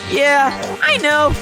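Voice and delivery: sing-song menace like a game show villain; fighting game announcer. Acted. Plays the Killing Game announcer.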